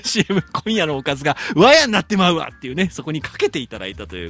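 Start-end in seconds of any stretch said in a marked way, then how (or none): 0.5-2.5 imitated Nagoya dialect ad line; mock Nagoya dialect catchphrase. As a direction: lightly act out an old commercial in Nagoya dialect. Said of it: "やってらっしゃった鎌倉ハムのね".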